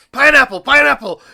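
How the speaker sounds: frantic high yell, very loud; hammed-up panicked scream from a customer. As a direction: shriek it like a desperate safe word. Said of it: "one of the regulars scream out".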